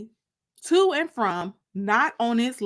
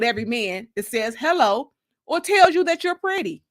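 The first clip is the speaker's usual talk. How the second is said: a stern, louder grandmother's warning; serious grandmother; 2 semitones higher, 4 dB louder than usual. Retold or imitated. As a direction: lay down the law like a strict grandma who vouched for her. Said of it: "I knew Honey was serious".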